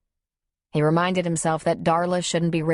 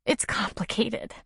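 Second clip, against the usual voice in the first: higher, slow, tearful reply; tearful hiccup; 5 semitones higher, 4 dB quieter than usual. A narrator's reading. Woman explaining tears to the man comforting her, tearful hiccup. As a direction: catch the voice as if crying. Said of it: "with a hiccup in her voice".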